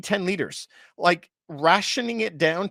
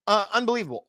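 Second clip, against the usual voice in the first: unbelievable said again pitched higher; higher repeat; 4 semitones higher, much faster than usual. Shown as a demonstration. Host repeating his disbelief at the oil detour, higher.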